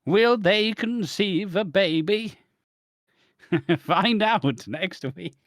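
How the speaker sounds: high, slow, drawn-out teaser; mock cliffhanger announcer. Teasing next week's baby storyline, mock dramatic announcer. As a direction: stretch it out like a soap-opera trailer.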